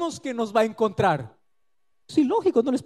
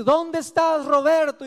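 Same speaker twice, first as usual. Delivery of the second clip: God calling; 5 semitones higher than usual. Acted. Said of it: "Y Dios dice".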